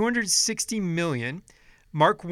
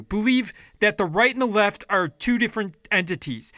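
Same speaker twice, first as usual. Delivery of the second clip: louder and higher, fired-up rant; angry rant; 3 semitones higher, 4 dB louder than usual. Real, not acted. Vlogger rants at viewers about corrupt rich politicians, angry and loud. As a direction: vent hard at the viewers.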